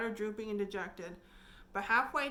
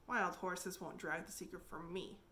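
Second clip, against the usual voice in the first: solemnly; 4 semitones lower, 7 dB quieter than usual. A narrator's reading. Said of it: "promised Anne solemnly".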